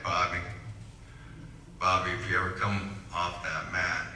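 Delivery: lightly put-on Southern coach voice; Southern accent. Speaker imitating his coach addressing him after a lost match, Southern accent. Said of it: "I gave a Southern accent to him".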